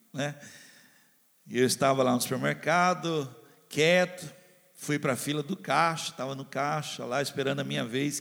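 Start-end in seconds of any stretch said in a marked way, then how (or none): none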